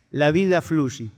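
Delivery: slow, drawn-out sage's pronouncement; measured punchline, each word stretched; solemn sage. Acted. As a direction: deliver it slowly like a wise master.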